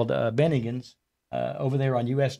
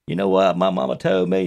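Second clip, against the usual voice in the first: Larry impression; 5 semitones lower, 4 dB louder than usual. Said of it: "Danny comes out with this Larry".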